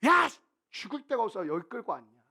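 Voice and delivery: sharp loud "야!" then an indignant complaint; hammed-up angry accusation; acted angry reading. Shown as a demonstration. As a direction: act it out like a furious crowd. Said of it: "연기를 하면서 읽는 거예요".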